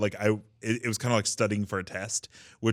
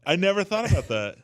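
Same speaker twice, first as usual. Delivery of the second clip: laughing; 11 semitones higher, 5 dB louder than usual. Real, not acted. Laughing at the dick joke.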